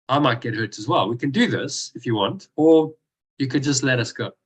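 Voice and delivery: retold composed warning, unhurried; calm, matter-of-fact. Martial artist warns knife-carrying thugs he could hurt them, calm and matter-of-fact. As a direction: state the threat calmly, as simple fact. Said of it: "Very calmly, very, like, matter-of-factly".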